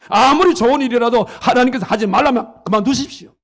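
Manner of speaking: forceful preaching. Real, not acted. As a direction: drive each command home to the congregation. Preacher exhorts congregation at full force. (힘주어 외치는 설교)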